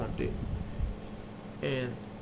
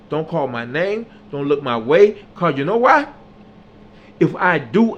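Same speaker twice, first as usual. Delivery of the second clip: louder, firm, fed-up lecture; angry laying down the law; 6 dB louder than usual. Retold or imitated. Fed up with friends who let him fight alone, loud scolding. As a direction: lay down the rules and mean it.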